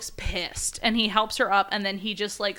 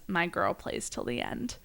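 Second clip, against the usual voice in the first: smiling; 3 semitones lower, 8 dB quieter than usual. A narrator's reading. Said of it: "he smiles and says".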